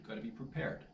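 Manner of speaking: a private reminder under the breath; whispered aside. Real, not acted. Vlogger reminding himself about drizzle, whispered aside. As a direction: whisper gotta be prepared to yourself.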